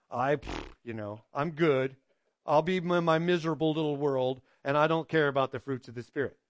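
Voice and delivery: lightly voiced grumpy shrug; dismissive mock voice. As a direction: play the careless sinner brushing it off. Preacher mimics a careless person.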